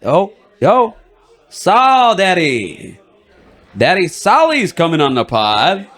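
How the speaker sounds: slow, drawn-out hype intro; hype announcer. Acted. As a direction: announce them like a show host.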